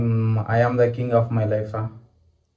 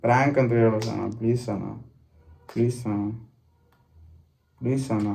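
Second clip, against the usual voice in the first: tearful pleading; 3 semitones lower, 8 dB quieter than usual. Real, not acted. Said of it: "ನಂಗ್ ಅಳು ಬರುತ್ತೆ ಸುಮ್ನೆ".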